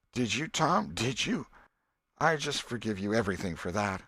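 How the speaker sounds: an aunt melting with forgiveness; touched old aunt. Acted. Aunt Polly moved.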